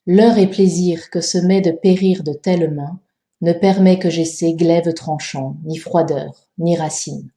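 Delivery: measured verse reading, running on across line ends; verse with enjambements. Shown as a demonstration. Teacher showing the second tercet, verse reading with enjambements. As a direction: carry the phrase over the line break, settling low at the close. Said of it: "Voici comment on le lirait en pensant aux enjambements".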